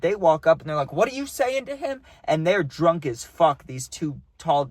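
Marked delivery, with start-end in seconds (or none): 0.9-2.0 heated challenge. Retold or imitated. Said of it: "like, heated".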